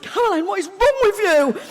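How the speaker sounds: imitating a friend. Comic voicing her friends asking, high and whiny. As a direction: whine it like a baffled friend. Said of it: "even my friends were like".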